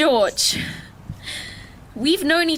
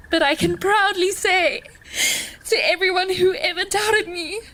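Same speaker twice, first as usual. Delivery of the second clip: higher, voice wobbling with tears; proud through tears; 5 semitones higher than usual. Real, not acted. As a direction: push through the crying proudly. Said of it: "Pete, you're making me cry".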